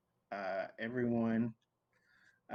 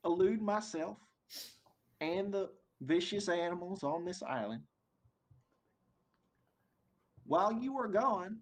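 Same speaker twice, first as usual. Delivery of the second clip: much higher, booming overseer announcement; big booming voice; 8 semitones higher than usual. Acted. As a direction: boom it out like a smug overlord. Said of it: "big booming voice".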